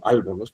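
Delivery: ALBORNOZ stressed on AL, tail dropped; stress on first syllable. Shown as a demonstration. Teacher repeating the bad version, stress on AL in ALBORNOZ. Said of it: "se escucha fatal".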